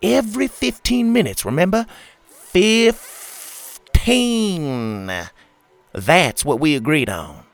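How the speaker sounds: high, loud nagging boss; bossy scolding. A narrator's reading. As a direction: scold him like a petty boss.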